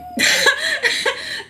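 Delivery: high, loud laugh; burst of laughter. Real, not acted. Laughing at making herself the ultimate villain, high cackling laugh. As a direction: crack up laughing.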